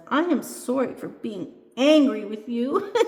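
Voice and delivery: storybook doll giggling an apology; laughing. A narrator's reading. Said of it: "the angry doll is laughing and says".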